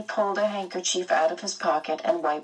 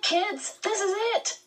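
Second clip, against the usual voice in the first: even higher, eager, climbing; quivering excitement. Acted. Charles Wallace telling the older kids, quivering with excitement. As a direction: repeat it thrilled, almost trembling. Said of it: "His voice quivered with excitement".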